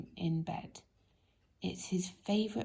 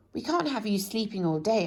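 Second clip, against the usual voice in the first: brisk scolding; 2 semitones higher, 6 dB louder than usual. Acted. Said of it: "added Mister Busy".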